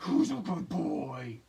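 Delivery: put-on slow, loud doting dog-baby voice; baby talk to dog. She gushes at a working service dog in slow loud baby talk. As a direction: coo it slowly at the pup. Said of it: "I'm like".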